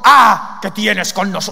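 loud opening cry, tentative demon voice; lightly voiced unclean spirit. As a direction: try out a possessed man's cry, then break off. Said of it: "no sé cómo hablaría".

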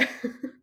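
a short real laugh; amused chuckle. Real, not acted. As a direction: let a laugh slip out. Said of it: "I'm just laughing".

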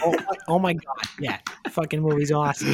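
teasing imitation of a Boston accent; mock Boston accent. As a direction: echo it in playful Boston tones, amused. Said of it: "Do you hear the Boston accent right there?".

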